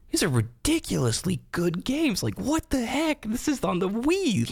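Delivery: high, slow astonished voice; amazed disbelief. Retold or imitated. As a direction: gush at how good it is. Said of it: "and you're like".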